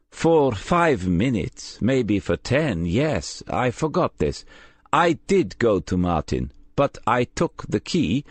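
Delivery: a wary young man suddenly remembering, lightly voiced; nervous young carer. Nervous carer admits forgetting.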